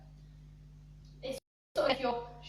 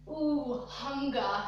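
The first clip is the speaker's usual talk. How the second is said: breathy ooh; much slower than usual. Shown as a demonstration. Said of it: "as if it's like a breath".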